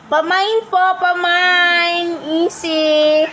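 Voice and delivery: teasing hawker-like call; playful calling out. Pretend. Offering bait to the grumpy cat.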